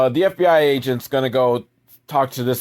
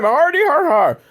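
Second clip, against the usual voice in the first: sarcastic laugh; 5 dB louder than usual. Acted.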